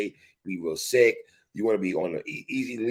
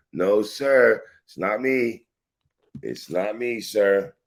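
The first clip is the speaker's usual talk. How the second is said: mock pleading denial; 4 semitones higher, 3 dB louder, much slower than usual.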